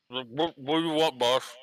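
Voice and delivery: talking with cheeks full; voiced through a mouthful of food. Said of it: "my voice is a little high 'cause it's all th-, all this jam".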